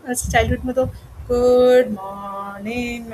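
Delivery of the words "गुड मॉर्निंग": "गुड मॉर्निंग" stretched out very slowly; long, level, drawn-out "गुड मॉर्निंग"; childhood singsong greeting. Retold or imitated. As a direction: chant "गुड मॉर्निंग" like schoolchildren, dragging each vowel. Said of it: "ऐसे बोल होता है थोड़ा".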